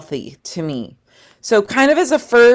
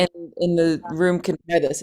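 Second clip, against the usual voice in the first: vocal fry; 2 semitones lower, 6 dB quieter than usual. Shown as a demonstration. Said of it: "the term vocal fry".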